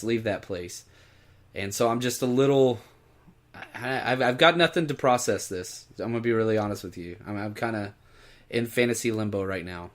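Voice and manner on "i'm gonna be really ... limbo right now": hollow, low-energy admission; drained, subdued confession; empty tone. Real, not acted. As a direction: sound emptied out and lost. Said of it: "do you hear that tone in his voice? ... it's empty".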